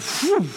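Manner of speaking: quick blown whoosh, rising in pitch; whoosh sound. Retold or imitated. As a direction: imitate hair suddenly sprouting. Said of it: "within a couple of weeks went".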